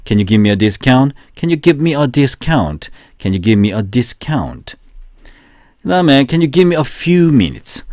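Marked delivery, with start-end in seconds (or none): 0.1-1.1 slow, even repetition drill. Shown as a demonstration. Teacher leading a three-times repetition drill slowly. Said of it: "세 번 시작". 1.4-2.9 slow, even repetition drill. Shown as a demonstration. Teacher leading a three-times repetition drill slowly. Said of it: "세 번 시작". 3.2-4.8 slow, even repetition drill. Shown as a demonstration. Teacher leading a three-times repetition drill slowly. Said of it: "세 번 시작".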